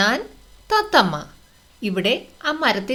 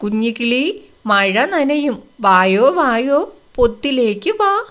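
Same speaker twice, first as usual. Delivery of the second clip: parrot calling; 4 dB louder, slower than usual. Acted. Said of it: "അപ്പോൾ തത്തമ്മ എന്തു പറഞ്ഞു?".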